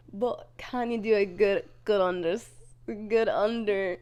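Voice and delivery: halting, slow attempt at Aussie; Australian accent. Shown as a demonstration. Challenging a friend, in a slow, faltering Aussie accent. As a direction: fumble through an Australian accent. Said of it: "good down under accent".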